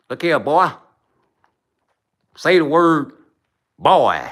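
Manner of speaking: a light mock Southern redneck drawl; redneck imitation. Mocking the rednecks who taught Africans English. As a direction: do a lightly voiced old redneck. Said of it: "tobacco spitting, mother lovers".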